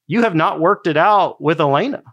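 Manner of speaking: God tapping him on the back before communion, lifted high; voice of the Lord. Retold or imitated. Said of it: "It's like".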